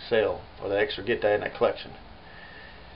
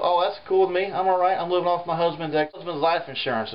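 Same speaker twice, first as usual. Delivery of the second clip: lightly raised, a touch breezy collector lady; lonely rich collector lady; 6 semitones higher than usual. Retold or imitated. A hint of a rich widow telling the artist she's fine. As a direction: toss it off like money means nothing to her. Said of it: "And she goes".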